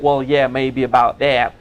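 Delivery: slow imitated Texan drawl; Texan accent. Teacher quoting an elderly seminar student, Texan accent. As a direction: imitate a Texan, taking it slowly. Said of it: "with your wonderful Texan accents".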